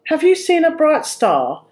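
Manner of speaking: hopeful and keen; eager question. A narrator's reading. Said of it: "she asked him eagerly".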